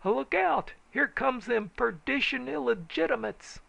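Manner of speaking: very high loud warning shout; high loud alarm cry; alarmed yell. A narrator's reading. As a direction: yell a warning as riders charge in. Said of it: "Everyone whirled and yelled".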